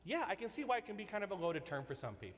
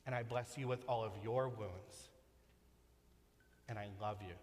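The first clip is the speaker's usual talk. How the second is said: tender blessing; 4 semitones lower than usual. Pretend. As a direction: bless them tenderly, fading to a hush at the end. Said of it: "holds out his hands and his scars and says".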